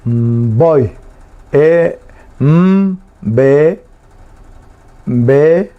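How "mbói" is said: "Voy" with a long hummed m, then a stressed O. Shown as a demonstration. Teacher repeats the word after naming its accent, "Voy" stressed on the O. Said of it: "Acento en la O".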